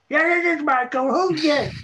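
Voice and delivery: put-on high, loud crotchety old man; old man barking down the phone at the producer; cranky old man. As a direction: grumble like a grouchy grandpa.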